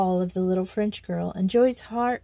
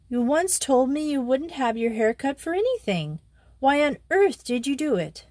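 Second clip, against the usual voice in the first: puzzled schoolgirl; 5 semitones higher than usual. Acted. Joey scolding, puzzled.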